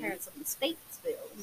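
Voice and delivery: put-on a lightly done Southern accent; jokey Southern twang. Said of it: "That's a terrible accent".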